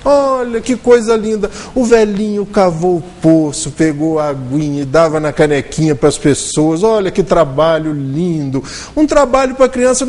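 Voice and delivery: mock the naive listeners' delight; lightly voiced enthusiastic listeners; gushing praise. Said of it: "pararam e falaram assim".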